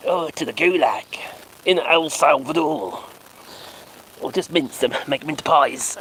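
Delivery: hushed, conspiratorial whisper; mock whisper. Streamer whispering a mock threat about deporting Musk. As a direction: whisper it like a sinister secret.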